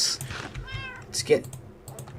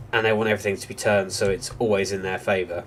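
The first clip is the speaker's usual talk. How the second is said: drowsy, nodding off voice; half asleep; 4 dB quieter than usual. Real, not acted. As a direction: sound barely awake. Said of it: "Which is why I sound half asleep".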